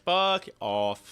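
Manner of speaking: annoyed retort. Retold or imitated. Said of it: "It's like".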